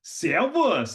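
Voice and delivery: "Servus" lifted high and bright; upward greeting. Shown as a demonstration. Austrian greeting said with upward tone. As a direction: lift "Servus" up. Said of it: "They go up".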